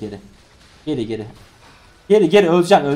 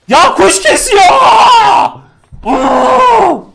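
high, loud yell of disbelief; sharp loud outcry; frustrated shout; 10 dB louder, much slower than usual. Real, not acted. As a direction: yell it at the screen. Shouting at teammates in game.

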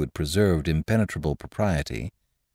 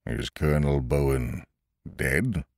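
calm; 3 semitones lower, 3 dB quieter than usual. A narrator's reading. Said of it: "said the smith quite calmly".

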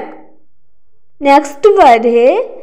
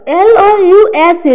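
spelling out letters; 4 semitones higher, slower than usual. Shown as a demonstration. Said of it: "next word है लव्स".

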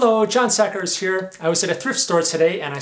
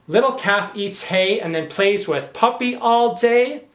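incredulous; 3 semitones higher than usual. Acted. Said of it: "for a pack of lies".

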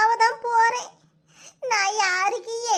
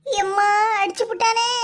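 crying wail. Acted. Woman wails after being hit.

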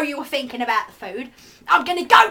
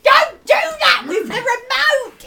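slow shout; 7 semitones higher, slower than usual. Acted. Disgusted at remote gesture.

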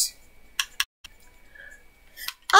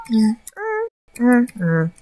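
ordinary talk, nothing marked

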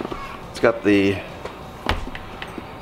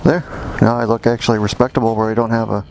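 putting helmet on. Real, not acted. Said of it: "I put a mic inside the helmet".

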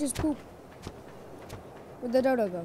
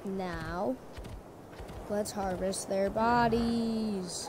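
put-on voice; 2 semitones lower, 4 dB quieter, much slower than usual. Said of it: "I don't know why I'm talking like that".

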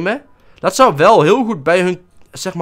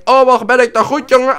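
mock cocky; 7 semitones higher, 6 dB louder than usual. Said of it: "en hij denkt".

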